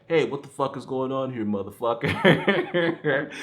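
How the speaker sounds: stretched, laughing mock outburst; mock Tommy yell. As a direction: yell it the way the bad actor did, cracking up. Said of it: "And he's like".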